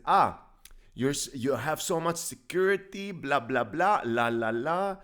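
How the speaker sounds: a playful Texan twang, lightly put on; southern accent. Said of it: "What's up with this accent?".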